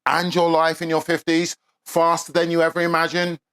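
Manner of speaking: soft, steady promo read. Acted. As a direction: sell it smoothly and evenly. Reads a promo for the cheat sheet.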